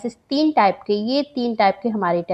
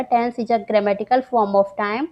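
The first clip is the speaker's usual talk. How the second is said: very slow, deliberate definition; dictation pace; much slower than usual. Shown as a demonstration. Teacher to students, dictating the definition very slowly. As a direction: read it out slowly for students to note down. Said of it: "एक sentence में define करें".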